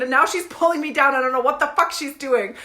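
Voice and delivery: ordinary talk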